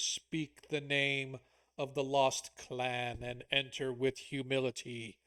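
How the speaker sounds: slow, solemn ghostly warning. Acted. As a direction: intone it like spectral dwarf guards. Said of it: "you hear them speak in a ghostly voice".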